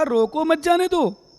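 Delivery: firm "रोको", then "मत जाने दो" as one unit; pause after रोको. Shown as a demonstration. Monk restating his real order, "रोको" set apart. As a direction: keep "मत" with "जाने दो". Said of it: "मैंने तो कहा".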